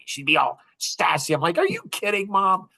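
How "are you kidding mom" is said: higher-pitched mock disbelief; incredulous retort. Son retelling an argument with his mom, incredulous. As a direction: push back at her, voice lifted.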